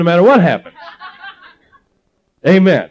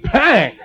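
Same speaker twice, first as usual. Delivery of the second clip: sudden high "bang"; punchline sound effect for a knockout blow; imitated punch sound; 6 semitones higher than usual. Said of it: "and just went".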